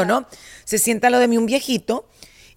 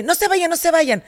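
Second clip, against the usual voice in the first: put-on higher, slow pleading old-man voice; 6 semitones higher than usual. Retelling the old gambler begging, higher slow plea. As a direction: imitate the old man begging them to stay. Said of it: "me dice".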